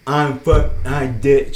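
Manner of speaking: indistinct mock deaf woman's voice; imitated deaf speech. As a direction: blur the words, imitating a deaf speaker. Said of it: "Say it just like she said it".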